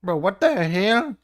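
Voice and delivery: high, loud, fed-up yell; exasperated yell. Real, not acted. Gamer yelling at a glitchy tool, loud exasperation. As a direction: throw it at the screen in disbelief.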